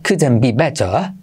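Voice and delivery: England-style, dropped r on better; British accent. Shown as a demonstration. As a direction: say it the British way, slowly. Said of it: "creo que lo dicen así en Inglaterra".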